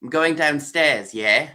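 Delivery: lightly done English accent, drawn out; English accent with a questioning tag at the end. Shown as a demonstration. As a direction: mimic how they say it in England. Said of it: "somebody will say in England".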